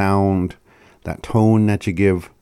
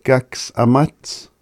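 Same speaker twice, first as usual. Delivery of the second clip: imitating the speaker; 4 semitones higher than usual. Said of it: "She's like".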